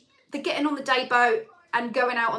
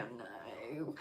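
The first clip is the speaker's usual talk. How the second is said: quiet dread moan; 13 semitones lower, 21 dB quieter than usual. Retold or imitated. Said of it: "And I was like".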